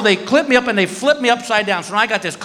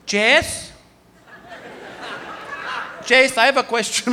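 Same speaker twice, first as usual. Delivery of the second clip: whiny plea to wife; 4 semitones higher, 3 dB quieter, slower than usual. Retold or imitated. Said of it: "I'm like".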